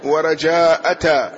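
ورجاء أتى as wa-rajaa'ata, ta after the long aa; ta after madd. Shown as a demonstration. Teacher listing three variants, ورجاء أتى with added ta. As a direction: hold the aa in ورجاء أتى, then add ta. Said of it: "بالتاء بعد المد".

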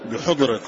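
بحضرة pronounced with a short u on haa; damma on the haa. Shown as a demonstration. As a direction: say بحضرة with "u" after the ح, bi-hudra. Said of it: "بالضم يقول". (بحضرة بضم الحاء)

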